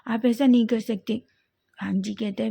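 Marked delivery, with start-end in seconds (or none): 0.1-1.2 higher, louder stammered protest; young lover shocked as his partner walks away; shocked disbelief. A narrator's reading. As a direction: gasp out the what, then protest. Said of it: "आंखें बड़ी हो जाती हैं".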